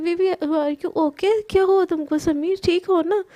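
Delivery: put-on a mild worry for her hurt boyfriend; worried girlfriend. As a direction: girlfriend sees his marked face, mildly worried. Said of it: "बहुत घबरा जाती है और बोलती है".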